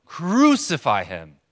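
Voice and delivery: drawn-out, loud, insistent mob cry. Retold or imitated. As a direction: shout it slowly with mounting force. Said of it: "And then again, even louder".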